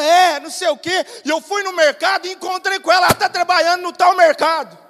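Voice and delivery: high, rushing mock complaint; hammed-up distressed account; imitated upset wife. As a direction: rattle it off as a worked-up woman. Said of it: "você tá chorando desse jeito".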